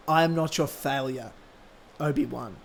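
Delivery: solemn dramatic line reading; Anakin. Acted. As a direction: drop it low and hushed, pausing before the name. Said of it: "Anakin's line".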